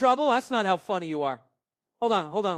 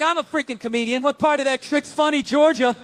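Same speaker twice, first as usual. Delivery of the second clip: rising, louder frustrated demand; exasperated yell; 5 semitones higher, 3 dB louder than usual. Retold or imitated. Dad yelling at daughter about the trick, exasperated. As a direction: snap at the kid in disbelief. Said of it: "I'm like".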